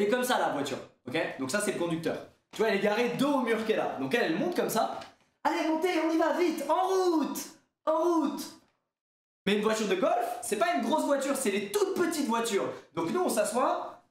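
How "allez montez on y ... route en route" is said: high, hammed-up rallying cry; urgent hurrying call. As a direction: imitate someone rushing everyone aboard. Driver hurries passengers aboard.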